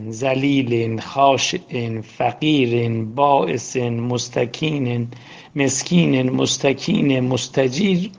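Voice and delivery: slow chanted supplication; slow, devout Arabic prayer; prayer recitation. Acted. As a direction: intone it humbly before God.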